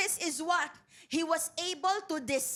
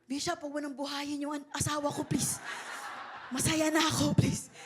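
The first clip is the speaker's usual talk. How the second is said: mock pleading; 3 semitones lower than usual. Skit of pleading with Bishop.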